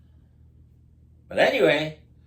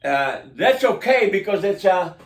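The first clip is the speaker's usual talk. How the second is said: mock official; 6 semitones higher, 3 dB louder than usual. Mocking city employee answer.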